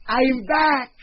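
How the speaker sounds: loud, high triumphant call. Acted. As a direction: wake the whole room up. Mouse returns, calls out.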